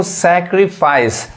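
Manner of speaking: सैक्रिफाइस drawn out slowly: sɛ-kri-faɪs; slow clear pronunciation. Shown as a demonstration. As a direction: model सैक्रिफाइस slowly for students. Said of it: "क्या बोलेंगे इसको". (सैक्रिफाइस धीरे साफ़ बोलना)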